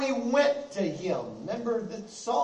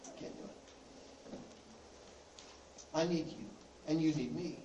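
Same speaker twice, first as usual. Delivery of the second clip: whispered admission; 7 semitones lower, 14 dB quieter than usual. Acted. Paul admits he cannot alone.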